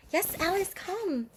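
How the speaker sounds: high soft coo to a pet. Real, not acted. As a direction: sweet-talk the kitty softly. Calling the cat.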